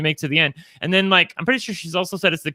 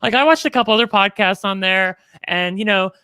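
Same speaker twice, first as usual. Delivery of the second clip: imitating mom; 3 semitones higher than usual. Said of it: "She's like".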